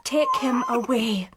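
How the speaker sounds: whispered, turning away. Acted. New mother whispering to her sister to take the baby. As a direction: barely breathe the refusal.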